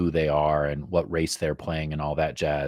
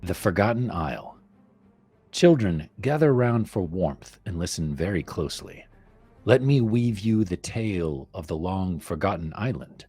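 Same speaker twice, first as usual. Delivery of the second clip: horror host. Acted. Reads campaign blurb as tale.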